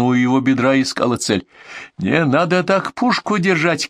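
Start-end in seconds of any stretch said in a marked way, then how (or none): 2.0-3.9 high, drawn-out agitated cry; nervous shout. A narrator's reading. Bandit objects to the aimed carbine, shouting nervously. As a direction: protest nervously with pitch way up. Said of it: "кричал нервно Кацо".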